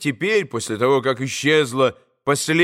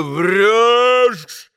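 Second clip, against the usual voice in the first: louder furious bark; angry shout; 6 semitones higher, 5 dB louder than usual. A narrator's reading. Mitya shouts at the maid, furious. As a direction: snap at her in anger. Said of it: "вскричал Митя".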